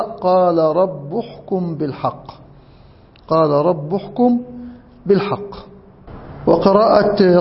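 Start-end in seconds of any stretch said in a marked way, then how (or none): 0.0-5.5 رب read "rabbu", running into احكم; damma on ba. Shown as a demonstration. Teacher citing a variant reading, u ending on رب. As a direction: give رب a final u before احكم. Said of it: "في قراءة من قرأ".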